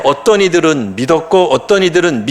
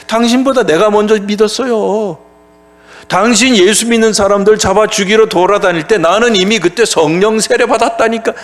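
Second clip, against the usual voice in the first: higher-pitched combative retort; challenging, defiant; 4 semitones higher than usual. Acted. Jewish believers challenging Paul over who believed first, acted defiance. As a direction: pull rank in a mock confrontation. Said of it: "뭐라고 덤볐어요?".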